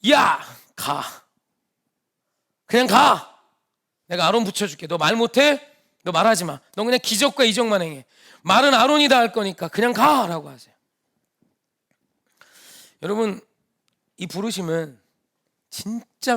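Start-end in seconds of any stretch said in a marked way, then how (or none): 0.1-10.5 mild acted anger, a touch louder, telling Moses off; God losing patience with a reluctant Moses, angrily; angry God. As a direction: scold him like an exasperated father who has run out of patience. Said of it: "화내세요".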